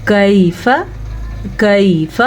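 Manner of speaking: کیف with the last syllable kept short; short final fa. Shown as a demonstration. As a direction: end کیف on a brief, unstretched "fa". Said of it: "فا کو لمبا نہیں کرنا".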